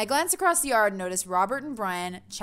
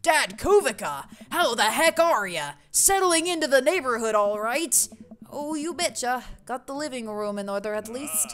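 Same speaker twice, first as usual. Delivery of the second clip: loud, jovial neighborhood dad voice; big, chummy dad voice; hearty neighbor dad; 4 semitones higher, 4 dB louder than usual. Acted. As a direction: boom out a hearty greeting. Plays hearty neighbor Brian.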